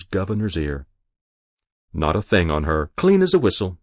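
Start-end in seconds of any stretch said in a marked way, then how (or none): 1.9-3.8 Stebbins' voice. Acted. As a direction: report to the governor, crisp. Sergeant Stebbins reports.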